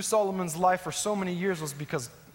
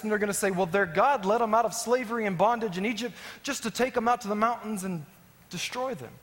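retold plea, slightly raised pitch; pleading with God; 4 semitones higher than usual. Moses reasons with God to spare the people, mildly pleading. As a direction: plead earnestly, preacher retelling an argument. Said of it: "This is Moses pleading with God now".

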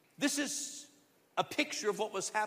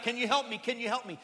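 beggar crying out; 4 semitones higher, faster than usual. Retold or imitated. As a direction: keep crying out for help. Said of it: "he's still crying out".

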